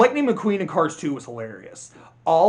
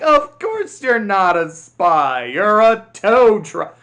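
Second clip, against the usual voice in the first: slow, loud mock disbelief; exaggerated slow, emphatic impression of the spies; mocking retort; 4 semitones higher, 8 dB louder, slower than usual. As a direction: drag it out loudly, mimicking clueless spies. Mocks the spies' reply in the film.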